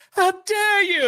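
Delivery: high indignant mock outrage; outraged wife. Wife storming off from husband, high mock outrage. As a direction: throw it at him, offended. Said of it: "And she's like".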